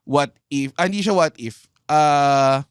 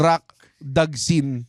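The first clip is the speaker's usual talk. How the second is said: slow announcing; much slower than usual. Pretend. Playing with the name.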